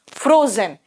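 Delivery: "फ्रोजन" as fro-zen, Z clearly buzzed; correct Z sound. Shown as a demonstration. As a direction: say "फ्रोजन" firmly with a Z, not J. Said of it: "जा अलग है और ज अलग है". ("फ्रोजन" में ज़ पर ध्यान देकर)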